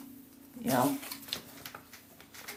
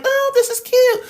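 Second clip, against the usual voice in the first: mock dainty tourist; 4 dB louder than usual. Mock tourist dipping a toe.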